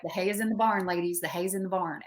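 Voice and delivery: lightly voiced Southern accent, like a swim coach. College coach rallying his swimmers, light Southern accent. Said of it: "he had a Southern accent".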